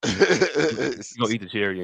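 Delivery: slow drawn-out repeat. Retold or imitated. To his co-host, slowly relishing the punchline. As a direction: stretch each word out slowly.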